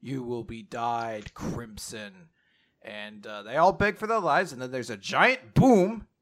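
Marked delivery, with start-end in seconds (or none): 0.0-2.3 slow, solemn pronouncement; drawn-out, imperious verdict; voice from the beam. Acted. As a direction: pass sentence slowly and deliberately. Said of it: "the voice says".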